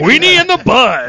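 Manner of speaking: high, loud goofy voice; silly clown. Pretend. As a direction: squeal it like a clown. Silly high echo of the phrase.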